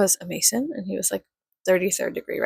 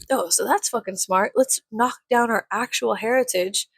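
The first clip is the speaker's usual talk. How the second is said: snarky mock quote; 3 semitones higher than usual. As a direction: needle him with exaggerated sarcasm. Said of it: "I was just being, like, a little bitch".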